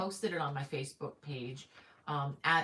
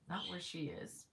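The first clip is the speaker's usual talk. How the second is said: a quick hushed aside; whispering that Georgia gets no snow; whispered aside; 7 dB quieter than usual. Real, not acted. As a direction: whisper it under your breath. Aside about daughter in Georgia.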